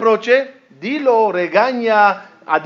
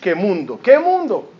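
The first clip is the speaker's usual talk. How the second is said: mock complaining; slower than usual. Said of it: "andaba quejándose de la vida".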